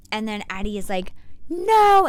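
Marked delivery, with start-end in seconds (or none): 1.5-2.1 sudden high, loud refusal; shouted no. Retold or imitated. Addie refusing Eve's advice, a sharp high shout. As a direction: snap it out as a sharp, outraged no.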